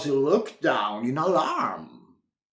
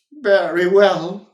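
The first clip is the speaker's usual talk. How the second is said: smiling; 7 dB louder than usual. A narrator's reading. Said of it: "smiled Wilfred".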